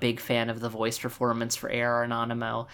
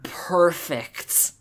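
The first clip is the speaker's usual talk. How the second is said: whispered; 5 semitones higher, much slower than usual. Real, not acted. Emphatic praise of the Japanese actor.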